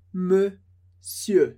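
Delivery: monsieur said as "msieu", silent R and N; teacher models monsieur, no R, final E-like vowel; French pronunciation. Shown as a demonstration. Teacher showing students the sound, careful monsieur. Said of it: "pensa no som".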